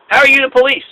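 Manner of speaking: high-pitched mock disbelief; retold incredulous challenge. Retelling confrontation with plainclothes police.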